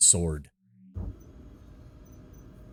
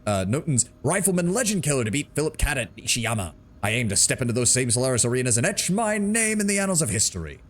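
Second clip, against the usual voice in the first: a light, hammed-up cocky braggart voice; over-the-top Duncan; 3 semitones higher than usual. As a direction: brag like a washed-up arena star. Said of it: "try to do an over-the-top voice".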